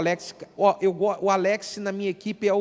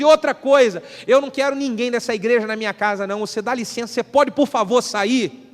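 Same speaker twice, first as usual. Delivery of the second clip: angry retort; 2 semitones higher than usual. Acted. Gil throws the pastor out.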